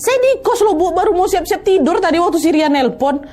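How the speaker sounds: high, protesting disbelief; son-in-law protesting to his mother-in-law; confused son-in-law. Retold or imitated. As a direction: insist you never left.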